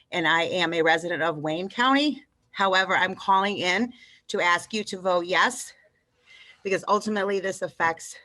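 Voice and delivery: breathless after running; winded, catching her breath. Real, not acted. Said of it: "Sorry, I'm out of breath".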